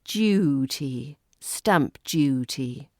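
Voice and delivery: "Duty" said slowly with a dyoo start; dew sound slow. Shown as a demonstration. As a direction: stretch the dew glide. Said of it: "create this dew sound".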